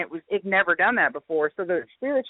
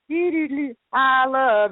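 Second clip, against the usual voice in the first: higher-pitched imitation of a device's output; spirit box voice; 4 semitones higher, slower than usual. Retelling what the spirit box played, mimicked high. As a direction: mimic the box's sing-song blips and words. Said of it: "you hear it go".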